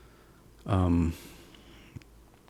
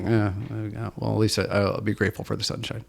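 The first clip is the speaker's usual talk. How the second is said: nonchalant shrug; 4 dB quieter than usual. Retold or imitated. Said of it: "Just totally nonchalant".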